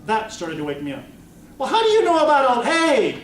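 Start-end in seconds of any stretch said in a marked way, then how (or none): 1.6-3.2 high, loud, rushed outburst; startled protest. Acted. Child protests to the sword that knows too much, startled. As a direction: blurt it out, caught off guard.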